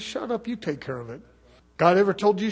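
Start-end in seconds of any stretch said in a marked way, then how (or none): 0.0-1.2 God's reply. Retold or imitated. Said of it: "He says".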